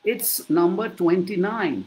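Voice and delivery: very slow, each word spelled out; slow clear number. Shown as a demonstration. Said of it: "তোমার তো জানা আছে".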